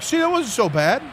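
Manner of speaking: teasing reassurance. Retold or imitated. Friend Mitch teasing the starstruck fan, high and playful. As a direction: rib your friend playfully. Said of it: "And Mitch was like".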